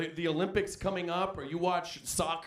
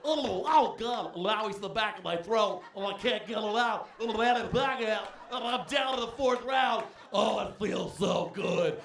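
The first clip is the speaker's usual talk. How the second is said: savoring ecstatically; 4 semitones higher than usual. Pretend. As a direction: ham up tasting the name like fine wine. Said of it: "I'm gonna say Manny Pacquiao".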